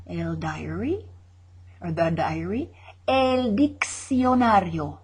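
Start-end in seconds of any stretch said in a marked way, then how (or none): 3.1-5.0 slow model. Shown as a demonstration. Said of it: "model then repeat".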